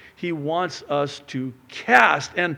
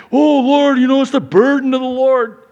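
loud, high whine to the Lord; hammed-up complaint; self-pitying protest; 9 semitones higher, 9 dB louder than usual. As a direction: overplay the burdened servant. Preacher voicing himself, complaining.

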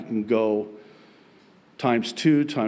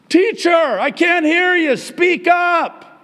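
very high, loud yell at the teacher; piercingly high classroom shout; 12 dB louder, slower than usual. Retold or imitated. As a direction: holler it out at full volume on one high note. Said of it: "I yelled at him".

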